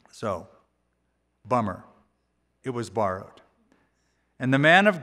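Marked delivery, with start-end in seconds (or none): 0.1-3.4 low, soft and glum; deflated. Acted. Prophet moping to himself over the lost axe, deflated. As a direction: let the air out, all gloom.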